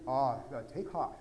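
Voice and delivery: stiff King James. Shown as a demonstration. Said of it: "get the King James Version out of your head".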